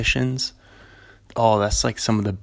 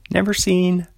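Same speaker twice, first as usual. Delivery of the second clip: movie trailer voice. Shown as a demonstration. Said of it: "Movie voice".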